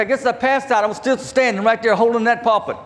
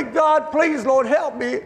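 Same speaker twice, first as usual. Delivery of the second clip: retold plea to God, pitched higher; pleading prayer; 5 semitones higher than usual. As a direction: plead upward as if praying for help. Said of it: "and so I pray".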